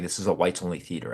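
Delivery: quick, offhand matter-of-fact line. Retold or imitated. Mom brushing off her son's question, matter-of-fact. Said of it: "kind of a matter of fact".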